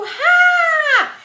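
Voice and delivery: ra shouted very high and loud; teacher imitating a pupil's answer; pretend child answer. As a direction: mimic a child calling out ra. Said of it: "Pude escutar alguém falando".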